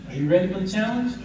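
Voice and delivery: pressing repeat. Shown as a demonstration. Preacher repeats the challenge to the congregation, demanding. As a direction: push the crowd to answer now. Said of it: "No, I'm asking you".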